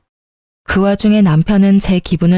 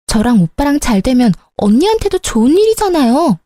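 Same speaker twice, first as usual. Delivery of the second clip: put-on higher, petulant young sister-in-law voice; sister-in-law sulkily confronts her brother's wife, higher whiny voice; 5 semitones higher than usual. Sister-in-law complains to narrator.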